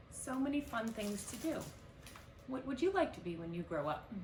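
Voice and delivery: put-on bright, friendly kids' show host; cheerful intro to kids. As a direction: welcome the little ones in. Baker mom intro to kids.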